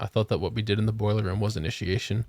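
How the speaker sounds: level, serious delivery of a joke; straight-faced deadpan. Retold or imitated. New hire teasing the boss about initiation, deadpan. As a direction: keep it completely deadpan. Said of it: "with the straightest face and went".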